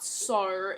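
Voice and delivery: exaggerated r-coloured "sir"; "sir" with a heavy r ending, as a bad imitation; wrong Aussie O. Shown as a demonstration. Tutor showing learners what to avoid, wrong r-heavy O. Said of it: "It's not".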